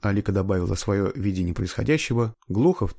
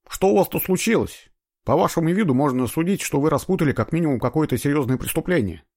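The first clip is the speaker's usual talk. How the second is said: удивлённый сыщик; 8 semitones higher, 4 dB louder than usual. A narrator's reading. Сыщик удивлён, врывается в кабинет.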